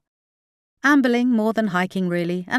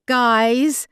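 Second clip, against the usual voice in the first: loud, higher urgent call; 6 semitones higher, 6 dB louder than usual. A narrator's reading. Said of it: "said Carly a third time".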